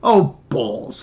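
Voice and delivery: mildly growled curse; a light growl of annoyance; growled grumble. Acted. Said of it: "growling from the back".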